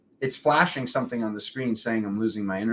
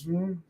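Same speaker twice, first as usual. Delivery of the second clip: higher, soft imitated hum; soft, raised "hmm"; imitated snake's hmm; 5 semitones higher, 5 dB quieter than usual. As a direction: voice the white snake's little hum. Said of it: "then the white snake goes".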